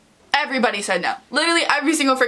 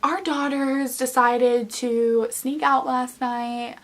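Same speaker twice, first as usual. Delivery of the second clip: fake polite act; 3 dB quieter, slower than usual. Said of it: "puts on a real good fucking act".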